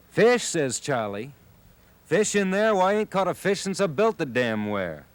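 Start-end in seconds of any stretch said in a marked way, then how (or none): 0.1-0.4 sharp high startled yelp; a high, loud burst of disbelief. A narrator's reading. Charlie startled by the claim. 2.0-5.1 put-on high, outraged old fisherman; a high, indignant denial; indignant disbelief. A narrator's reading. Charlie indignant at the serpent.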